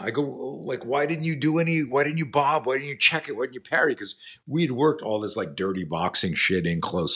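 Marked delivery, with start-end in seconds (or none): 0.2-4.0 high-pitched string of retold questions; pleading, incredulous imitation, pitch held high; exasperated questioning. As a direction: act out a coach baffled by his student. Coach grills student about his moves.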